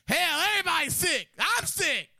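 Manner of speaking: very high, loud exasperation; exasperated customer. Retold or imitated. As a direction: throw it up high in disgust.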